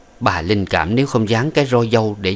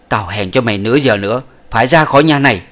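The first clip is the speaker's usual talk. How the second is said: harsh order; 2 semitones higher, 5 dB louder, faster than usual. Acted. Old woman ordering concubine out.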